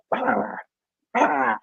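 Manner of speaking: high yappy mock bark; imitated dog bark. Telling friend about the pug barking at the stove, high mock yap. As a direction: yap like a little old pug. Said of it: "he's barking".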